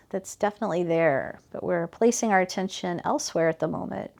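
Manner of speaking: calm, even body-scan guidance with unhurried phrasing; guided meditation. Real, not acted. Teacher guiding students' attention from heels up to shoulders, guided meditation. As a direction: gently lead attention through the body, leaving space between phrases.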